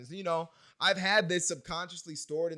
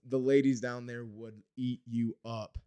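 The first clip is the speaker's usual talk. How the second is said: put-on light, slow Southern accent; imitated Southern accent; 2 semitones lower, slower than usual. Texan at the bar to a young man, light Southern accent. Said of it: "He has a Southern accent".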